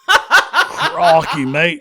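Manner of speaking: badly faked British accent; worst British accent. Co-host joining the accent gag, worst British accent. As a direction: put on a hammed-up, terrible British accent. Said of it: "talk in our worst British accents".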